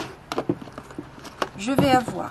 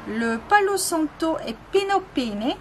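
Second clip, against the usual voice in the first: Palo Santo said higher with a playful put-on Spanish accent; mock Spanish accent; 5 semitones higher than usual. Listing incense for her viewers, jokingly in a Spanish accent. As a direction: roll out the Spanish names in a hammed-up Spanish accent. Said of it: "Avec mon superbe accent".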